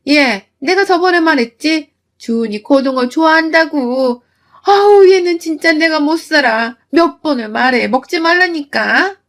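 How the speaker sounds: 손등 치며 나무라는 시어머니 흉내; 짜증 섞인 꾸중, 마지막은 느리게. Retold or imitated. (며느리를 나무라는 시어머니 흉내)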